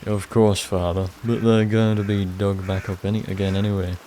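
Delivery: put-on northern accent, speaking up to a priest; a hint of a northern accent. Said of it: "giving everyone, like, a northern accent".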